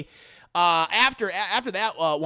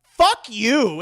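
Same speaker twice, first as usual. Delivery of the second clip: loud, acted indignant retort; angry retort; 7 dB louder than usual. Leanne answers her vulture friends, loudly indignant. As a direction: push it out hard at the offender.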